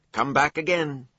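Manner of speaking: high, loud call. A narrator's reading. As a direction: call after him cheerfully. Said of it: "Thumbface called".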